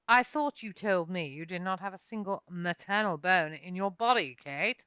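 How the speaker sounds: a touch of a rebuke; reprimanding. Acted. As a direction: Sagerson chides Kate, a touch of a reprimand. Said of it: "reprimanded Sagerson".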